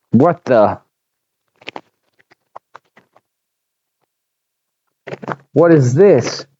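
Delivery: a woken dog's frightened yelp of confusion; fearful whimper. A narrator's reading. Brutus woken rudely by captors, whimpering with fear. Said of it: "Brutus whimpered with fear".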